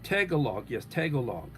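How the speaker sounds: "Tagalog" said as TAG-uh-log; pronunciation check. Shown as a demonstration.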